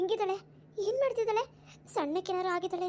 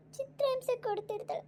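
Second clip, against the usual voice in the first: crying repeat; 5 semitones higher than usual. Acted. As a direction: let the repeat crack up into a whimper. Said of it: "ಯಾಕ್ ಅಮ್ಮ ಹିಂಗ್ ಅಳ್ತಾ ಕೂತಿರೋದು?". (ಎತ್ತರದ ದನಿಯಲ್ಲಿ ಮೆಲ್ಲನೆ ಅಳುತ್ತಾ)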